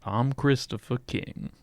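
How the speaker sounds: slow put-on Southern drawl; light southern accent, drawn out. Shown as a demonstration. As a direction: introduce yourself with a lazy Southern drawl. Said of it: "a southern drawl".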